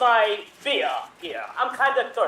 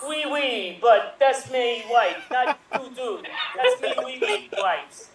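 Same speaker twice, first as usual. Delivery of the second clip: higher, hammed-up French accent; 4 semitones higher than usual. Husband guarding his wife from the captain, in mock French accent. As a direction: play a laughing mock Frenchman. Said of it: "with French accents".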